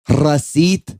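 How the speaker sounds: drawn-out imitation of a Latino accent. Worker repeating it a fourth time, imitated Latino accent. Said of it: "have a hard time with accents".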